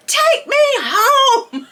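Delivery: high, slow, half-laughing whine; laughing plea. Retold or imitated. Teen begging her friend for a ride, high and laughing. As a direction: beg for the ride home, laughing at herself. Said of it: "I think I said".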